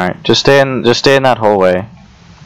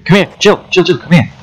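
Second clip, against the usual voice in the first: urgent call, pitched up; 7 semitones higher than usual. Real, not acted. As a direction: call your friend over, urgently. Calling teammate during hunt.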